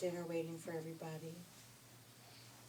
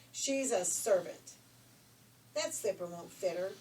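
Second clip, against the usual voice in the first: sneering; 7 dB louder than usual. Acted. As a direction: sneer at the servant. Sister sneers.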